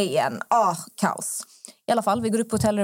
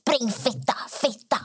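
mock screaming; 2 semitones higher, 4 dB quieter than usual. Old man's wife yelling after the leaving friends, mock screaming. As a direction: imitate a woman yelling after people, held back in volume. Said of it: "fru skrika efter oss".

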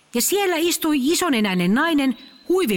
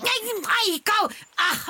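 yelp of pain; 7 semitones higher, slower than usual. Acted. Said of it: "ulvahti kivusta".

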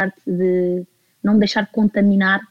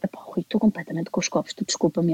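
tipsy confession; 3 semitones lower, 7 dB quieter than usual. Retold or imitated. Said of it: "E eu digo".

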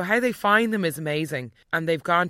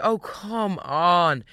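exasperated; much slower than usual. Retold or imitated. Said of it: "I was like".

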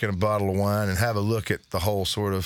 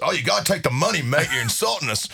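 imitated English accent, pitched up at first; 5 semitones higher than usual. Bass player insisting the band take payment, imitated English accent. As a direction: protest in a put-on English accent. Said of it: "he had this English accent".

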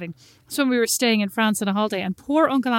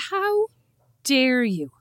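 mock outrage; 3 semitones higher, much slower than usual. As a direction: put on a huge offended gasp. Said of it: "I said".

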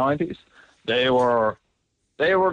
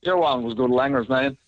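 Cork accent attempt. Shown as a demonstration. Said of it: "I'll give it a swing".

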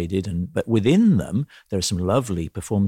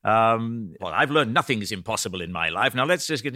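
hint of a preachy Welsh teacher; Welsh piano teacher; 2 semitones higher than usual. Welsh teacher lecturing his pupil, lightly voiced Welsh lilt. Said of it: "he says".

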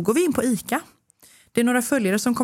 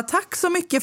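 polite thanks, retold; 9 semitones higher than usual. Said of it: "jag vill inte vara otrevlig".

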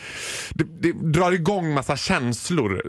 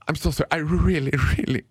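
pleading. Retold or imitated. Begging the attendant.

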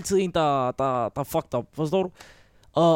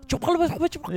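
higher, hammed-up pretend French; faking French; 9 semitones higher, 4 dB quieter, faster than usual. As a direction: bluff through with the only words you know. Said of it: "lader som om, jeg snakker fransk".

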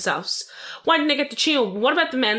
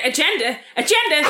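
mocking repetition; 4 semitones higher, 3 dB louder than usual. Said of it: "Oh, I said".

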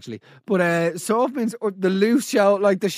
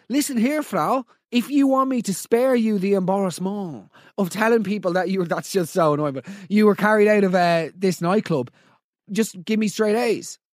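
mock blackmail. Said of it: "I would have said".

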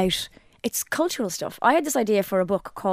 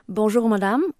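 bonjour, madame with a rising, courteous lilt; polite French greeting. Shown as a demonstration. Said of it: "If you say".

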